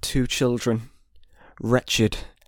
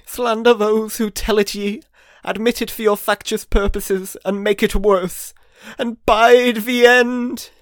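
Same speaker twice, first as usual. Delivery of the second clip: echoing ethereal energy being; 10 semitones higher, 4 dB louder than usual. A narrator's reading. Spirit's furious warning.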